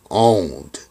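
"owned" said alone, low and falling; single low, emphatic "owned"; stress on "owned". Retold or imitated. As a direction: drop "owned" like a pointed clue. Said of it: "Pay attention".

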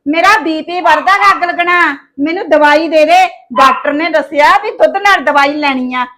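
loud, heated complaint; arguing back. Acted. Daughter-in-law arguing back at mother-in-law, heated. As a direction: fire back at her, complaining loudly.

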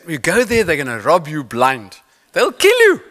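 hammed-up prophecy of doom; mock naysayer warning, rising to a cry; doom-saying naysayer. Naysayers voiced.

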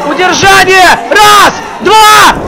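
rising count, voice jumps up; excited pin count. Real, not acted.

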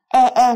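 e said like the Vietnamese e, not flat; the wrong Vietnamese e. Shown as a demonstration. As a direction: Vietnamese vowel e. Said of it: "không đọc giống như âm e ở trong tiếng Việt là".

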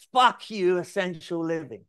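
a client who loves the brand name, hyped up; ecstatic. Retold or imitated. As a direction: shout the new name in joy. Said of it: "He went absolutely bonkers".

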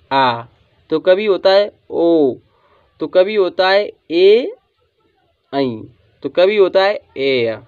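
vowels आ, ओ, ए, ऐ drawn out slowly one by one; each sound stretched for students to copy; slow vowel demo. Shown as a demonstration. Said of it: "ए का उच्चारण". (स्वरों को धीरे धीरे खींचकर बोलना)

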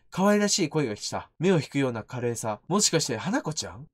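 low, quiet reading of a ghost's bitter tale; understated horror-game narration; subdued story reading. Acted. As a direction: read the story text softly and low. Reads game story text.

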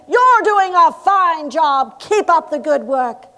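mock official praise, called out; an inspector's hollow public encouragement; hurried inspector's proclamation. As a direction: proclaim it grandly, stretching the opening words. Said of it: "rushing through to the fresh air and proclaiming".

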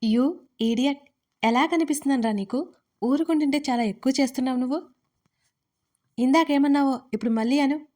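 heated, quick scolding; fast, fierce telling-off; angry challenge. Acted. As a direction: glare and dare him to repeat it. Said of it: "ఉరిమి చూస్తూ అడిగింది".

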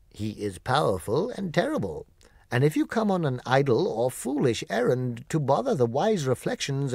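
solemn warning about a terrible wizard; gatekeeper's warning. Acted. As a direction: warn them off like a stern gatekeeper. Guardian warns of the wizard.

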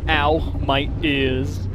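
loud, slow, rising ow; pained yelp. Real, not acted. Threaten call hurts his ears, loud slow yelp. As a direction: wince at the blast of sound.

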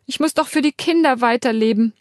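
sobbing. Acted. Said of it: "Jetzt schluchze ich haltlos".

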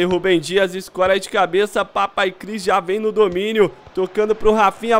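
ordinary talk, nothing marked

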